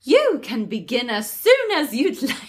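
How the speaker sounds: lightly regal queen. Acted. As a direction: try for a queen's voice. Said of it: "I don't know how to do a regal voice".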